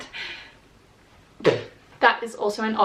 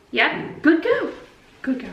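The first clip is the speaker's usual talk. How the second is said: squeaky praising a dog; 4 semitones higher than usual. Real, not acted. Praising the puppy.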